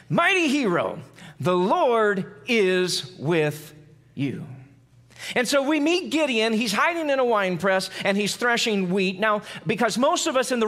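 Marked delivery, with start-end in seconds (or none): 0.1-4.4 slow, drawn-out solemn announcement; a hint of a solemn angel; angel's greeting. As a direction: announce it like a heavenly messenger. Angel's words read in scripture.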